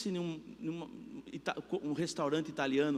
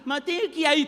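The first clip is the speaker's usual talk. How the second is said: imitação queixosa; 11 semitones higher, 8 dB louder than usual. Retold or imitated. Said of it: "tem gente que fala assim".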